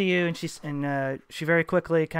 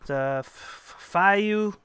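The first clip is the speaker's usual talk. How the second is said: clerk lady; 4 semitones higher, 4 dB louder than usual. Acted.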